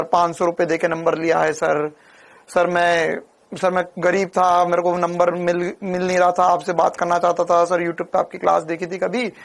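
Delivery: imitating a tearful student begging for help; mock crying student. Teacher imitates a crying student who paid for his number, mildly tearful. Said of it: "फिर रोने लग गया".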